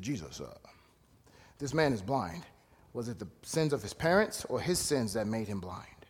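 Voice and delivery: hushed, low mock question from the disciples; whispered disciples. Disciples quoted trying to seem important.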